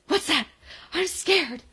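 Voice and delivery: high, hammed-up fearful kid; mock scared. Imitating mock-scared kid with flashlight.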